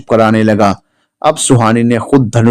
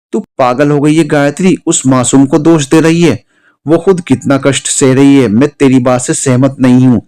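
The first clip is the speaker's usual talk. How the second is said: angry; 3 semitones higher than usual. Acted. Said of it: "Rajveer गुस्से में खाना छोड़कर चला गया".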